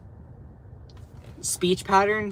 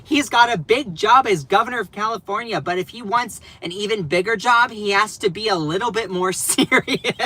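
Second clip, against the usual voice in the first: higher, prim scolding; mock Perino; 5 semitones higher than usual. Streamer mimicking the host's advice, prim and higher. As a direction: lecture like a scold. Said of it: "she's like".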